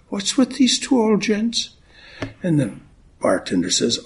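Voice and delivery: a light Irish brogue held through the greeting and the joke; Irish accent. Acted. Minister greeting the congregation on Saint Patrick's Day, in a light Irish accent. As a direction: lilt it like an Irish great-granddad. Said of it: "now I'll drop the accent".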